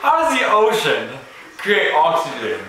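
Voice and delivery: high, baffled questioning. Retold or imitated. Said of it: "I'm like".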